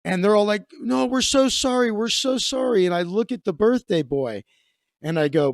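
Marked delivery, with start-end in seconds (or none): 0.8-2.9 higher-pitched, pleading mock apology; retold apologetic protest; imitated apology. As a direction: imitate a group begging forgiveness.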